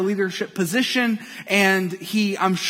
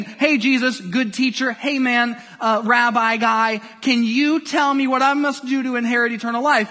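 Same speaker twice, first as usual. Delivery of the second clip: flippant; 4 semitones higher than usual. Retold or imitated. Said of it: "this man was flippantly saying".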